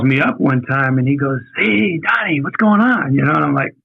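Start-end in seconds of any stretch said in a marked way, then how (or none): 1.6-3.1 higher-pitched, casual retold hello; breezy phone greeting. Boss phoning a job candidate, breezy retold greeting. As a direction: imitate a chirpy caller, pitched up.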